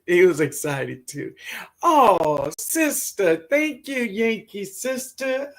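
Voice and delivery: real tears welling as she speaks; choked up. Real, not acted. Moved to tears talking to viewers about Ben. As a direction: voice catching with tears.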